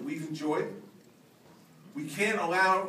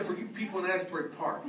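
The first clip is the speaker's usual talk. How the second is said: blunt angry order; 2 semitones higher, 10 dB louder, slower than usual. Retold or imitated. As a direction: yell at the beachgoers to clear out. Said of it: "I got behind the podium and I said".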